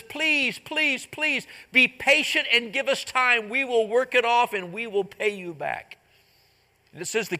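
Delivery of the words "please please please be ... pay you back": high, pleading servant. Retold or imitated. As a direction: beg for more time, hands clasped. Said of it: "pleads with the king".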